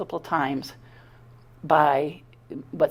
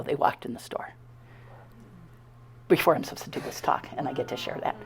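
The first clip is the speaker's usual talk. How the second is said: whispering; 6 semitones lower, 9 dB quieter than usual. Real, not acted. Awed hush about the coincidence.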